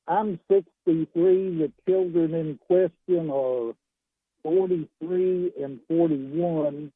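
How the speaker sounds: talking through a pillow; muffled phone. Real, not acted. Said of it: "Your phone is very muffled".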